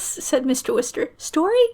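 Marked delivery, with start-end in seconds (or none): 1.2-1.7 puzzled question. A narrator's reading. Confused echo of the request.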